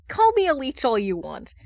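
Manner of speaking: retorting. Acted. Hal bickers with Bruce.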